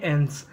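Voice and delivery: एंस as one syllable, "ens"; teacher showing एंस as "ens"; ENCE read as "ens". Shown as a demonstration. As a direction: model एंस ending in a hissed s. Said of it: "इसे पढ़ते हैं".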